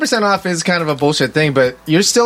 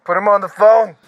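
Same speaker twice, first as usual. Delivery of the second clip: angry shout; 5 semitones higher than usual. Pretend. Angry inmate demanding on phone.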